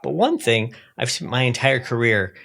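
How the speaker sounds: lightly done impression of a TV commentator; a hint of an imitated commentator; Tucker. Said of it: "That's a pretty good Tucker impression".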